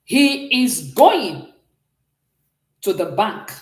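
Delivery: drawn-out, slow English gloss; slow, careful model line; slow demo reading. Shown as a demonstration. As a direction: stretch out going as you read it. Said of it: "I want to say something like this".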